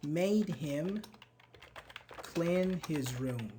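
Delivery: "Her mother made him clean his room" said slowly with pauses between phrases; slow dictation. Shown as a demonstration. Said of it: "How can you make a question?".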